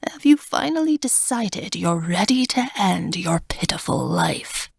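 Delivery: put-on cold, raspy, whispery old god; raspy old man. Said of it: "he sounds like an old man, raspy and cold".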